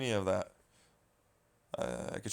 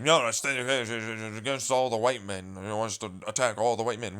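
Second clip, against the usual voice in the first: mocking quote. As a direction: drag it out like a whiny critic. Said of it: "He's like".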